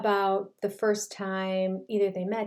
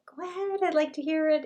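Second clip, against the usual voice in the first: much higher, encouraging quote; retold coaxing; 8 semitones higher, faster than usual. Christine coaxing Maddie to keep talking, imitated encouragement. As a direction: imitate gently urging someone on.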